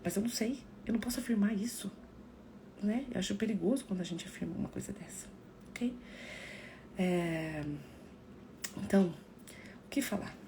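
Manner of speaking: soft, breathy confiding whisper; intimate whisper. Real, not acted. Confiding to her live viewers in a hushed whisper. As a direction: lean in and whisper it.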